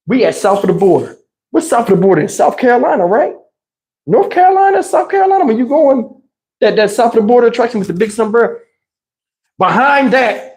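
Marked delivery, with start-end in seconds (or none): 4.1-5.4 emphatic. Real, not acted. Exclaiming the place names.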